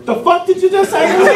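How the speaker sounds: high-pitched mock outrage; indignant squeal of a question; appalled disbelief. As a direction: throw it back, acted and incredulous. Appalled reply to sergeant.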